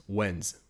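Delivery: When's with a clear buzzing Z at the end. Shown as a demonstration. Teacher modelling the correct Z sound. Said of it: "make sure to have a Z noise".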